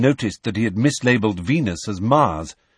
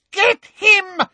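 very high, loud screamed order; 6 dB louder than usual. A narrator's reading. Umbridge urging on her helper, loud scream. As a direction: scream it louder, each word punched out. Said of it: "screamed Umbridge".

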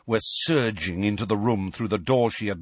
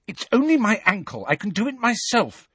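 impatiently; 11 semitones higher than usual. A narrator's reading. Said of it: "said Ginny impatiently".

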